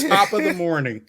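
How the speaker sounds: put-on Boston-British greeting; bad British accent. Imitating an actor's British accent, lightly hammed up. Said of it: "That's about his British accent right there".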